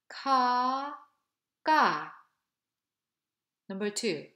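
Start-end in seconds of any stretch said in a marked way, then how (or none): 0.1-0.9 "ka" with a tight tense throat, no breath. Shown as a demonstration. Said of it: "Please repeat after me". 1.7-2.1 "ga" with a strong puff of air; aspirated ga. Shown as a demonstration. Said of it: "Please repeat after me".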